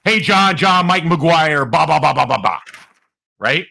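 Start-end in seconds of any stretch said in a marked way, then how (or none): 0.0-2.6 mock loud script read, pitched up; raised-voice retold cold-call pitch. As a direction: belt out a sales script. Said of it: "So I read it loud".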